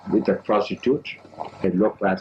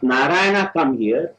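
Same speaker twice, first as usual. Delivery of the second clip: calling out; 3 semitones higher than usual. Retold or imitated. Father calling son.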